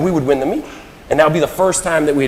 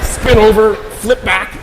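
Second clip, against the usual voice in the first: excited laughing; 9 semitones higher, 6 dB louder, much slower than usual. Real, not acted. Frantic retelling of the race.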